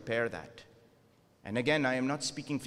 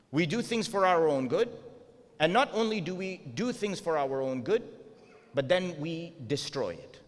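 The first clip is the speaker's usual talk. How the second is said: rising fervour; 4 semitones higher than usual. Real, not acted. Preacher driving the point home.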